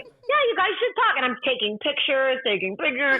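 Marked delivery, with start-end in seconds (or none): 0.0-1.1 much higher, airy brush-off; breezy. Retold or imitated. She steps aside for friend, high and airy. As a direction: toss it off lightly. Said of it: "I was like".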